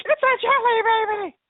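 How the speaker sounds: high, slow squeal of delight; excited scream. Retold or imitated. Fan retelling her excitement, high delighted squeal. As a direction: shriek it like a thrilled fan. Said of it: "I'm screaming 'cause I'm like".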